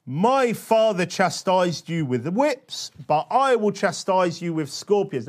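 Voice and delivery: forceful, drawn-out declamation; weighty reading, key words punched; emphatic scripture reading. Acted. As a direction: read it out like a bold proclamation.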